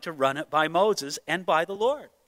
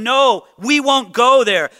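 slow, louder flat no; firm refusal; 3 semitones higher, 6 dB louder, slower than usual. Retold or imitated. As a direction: plant your feet and refuse. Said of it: "You should have told them".

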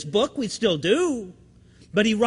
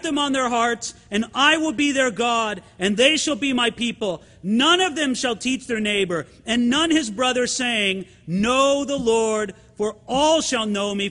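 raised, measured scripture reading. Acted. Pastor reads God's promise to the church, solemn reading voice. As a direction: read the promise out to the congregation.

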